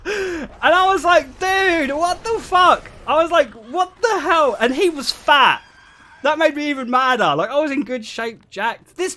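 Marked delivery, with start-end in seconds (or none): 0.1-6.9 high, loud laughing disbelief. Real, not acted. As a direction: laugh through the outrage. Retelling shock, laughing throughout.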